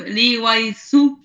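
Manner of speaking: "Iguazú" sounded out slowly; slow learner's attempt at "Iguazú"; tentative pronunciation attempt. Shown as a demonstration. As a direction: try out "Iguazú" slowly, syllable by syllable. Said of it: "Algo así, ¿verdad?".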